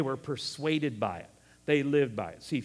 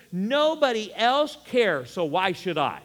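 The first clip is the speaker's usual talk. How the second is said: sulky attitude voice; 5 semitones higher, 8 dB louder than usual. Retold or imitated. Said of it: "Our attitude says".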